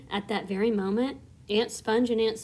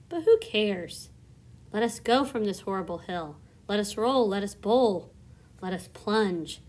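lightly rhythmic verse reading; rhyming poem recital. A narrator's reading. Centipede recites his rhyme to the crew, rhythmic verse. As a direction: recite the nonsense poem with bounce.

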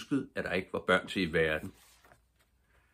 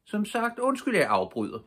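high, bright mock politeness, a little louder; polite again; 4 dB louder than usual. A narrator's reading. Pippi repeating her apology to the bull, high and teasing. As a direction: tease the bull with sweet manners. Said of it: "sagde Pippi igen".

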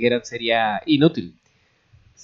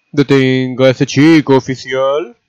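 loud, higher-pitched insistent call; shouted demand; 4 semitones higher, 8 dB louder than usual. A narrator's reading. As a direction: yell for the officer's help. Repeated shouted demand to officer.

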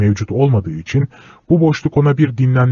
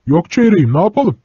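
helpless air; 6 semitones higher than usual. Acted. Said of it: "çaresiz bir eda ile".

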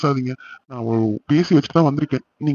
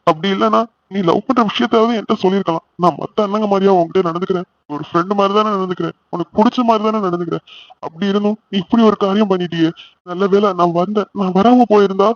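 hurt, higher-pitched pleading; tearful reproach; 4 semitones higher than usual. Acted. Brother hurt that sister didn't confide, mildly tearful reproach. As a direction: reproach them as if close to tears. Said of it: "நீ அழாதண்ணா".

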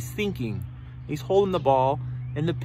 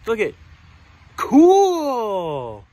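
impressed; 5 dB louder, much slower than usual. Acted. Characters think that's pretty cool.

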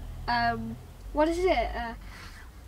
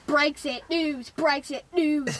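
slow droning news announcer; slow news drone; 2 semitones higher, slower than usual. Retold or imitated. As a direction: drone the headline slowly. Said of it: "all that you hear on the radio is this".

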